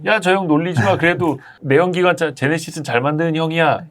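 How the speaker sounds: high-pitched, laughing defence of a friend; protective mock plea. Host playing someone defending Hyundai as the neighbourhood fool, mock-protective. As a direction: pitch it up and jokingly stick up for him. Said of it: "현대차도 좀 그랬었어요".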